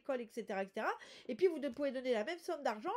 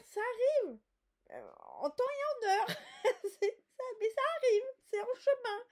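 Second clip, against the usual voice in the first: excited; 9 semitones higher, 5 dB louder than usual. Real, not acted. Excited that good news is coming.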